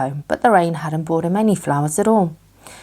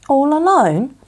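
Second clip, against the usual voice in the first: high, louder surprised ask; surprised question; 9 semitones higher, 5 dB louder, slower than usual. A narrator's reading. Pooh asking Christopher Robin about playing alone, surprised. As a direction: catch it in disbelief. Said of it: "questioned Pooh".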